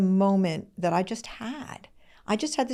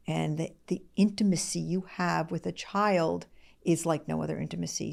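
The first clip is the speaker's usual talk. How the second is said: soft, near-whispered tenderness; tender hush; 5 dB quieter than usual. Real, not acted. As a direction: say it softly, like a secret joy. Tender talk about children.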